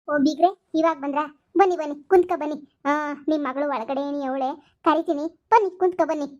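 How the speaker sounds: loud, over-sweet welcome to the in-law; fake welcome. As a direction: put on a showy, too-friendly greeting. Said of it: "ನಿಮ್ ನಾಟಕ". (ಬೀಗರಿಗೆ ತೋರಿಕೆಯ ಅತಿ ಸಿಹಿ ಸ್ವಾಗತ)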